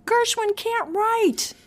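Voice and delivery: high, loud, slow ranting; yelling across the room. Retold or imitated. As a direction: bellow it across a club. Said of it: "He would shout across the room".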